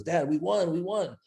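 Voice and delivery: high, thrilled mock cry of a young daughter; excited daughter. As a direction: imitate her bursting with excitement. Daughter excitedly announcing auction win.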